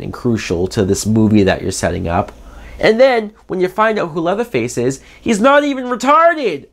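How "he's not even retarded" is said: much higher, incredulous outburst; outraged exclamation. Real, not acted. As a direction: cry it out in disbelief. Outraged exclamation about Leatherface.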